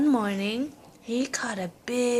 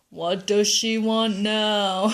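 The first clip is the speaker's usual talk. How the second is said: weary magic fish; 5 dB louder, slower than usual. Acted. Fish asks grandpa.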